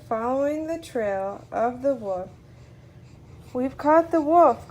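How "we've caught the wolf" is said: loud, higher-pitched announcement; triumphant cry. A narrator's reading. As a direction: cry it out as Peter to the hunters. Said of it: "cried Peter".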